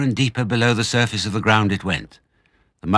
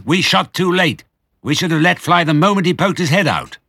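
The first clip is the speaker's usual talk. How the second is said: grumpy farmer Boggis; 10 semitones higher, 7 dB louder than usual. Acted. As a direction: spit out the curse in a high cranky farmer voice.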